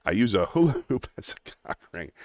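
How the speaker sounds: Brooklyn tough-guy accent with a laugh breaking through; laughing Brooklyn wiseguy accent. Shown as a demonstration. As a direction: show off the cartoon tough-guy voice, chuckling. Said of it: "the tough guy".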